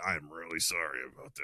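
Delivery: very soft, low apology; apologetic. Retold or imitated. Retelling how a parent apologized to an upset child, soft and apologetic. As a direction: drop right down and apologize gently. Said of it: "super apologetic".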